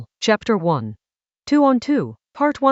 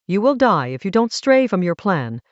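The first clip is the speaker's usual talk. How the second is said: flat, emotionless delivery; no emotion. Acted. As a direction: say it with no feeling at all. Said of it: "with no emotion in her voice".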